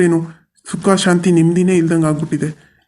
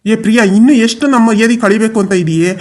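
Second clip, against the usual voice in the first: angry scolding; 4 semitones higher, 4 dB louder than usual. Acted. Father berates daughter Priya.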